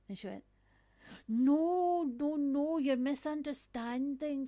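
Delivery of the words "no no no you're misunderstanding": flustered protest. Retold or imitated. Stranger protesting she isn't racist.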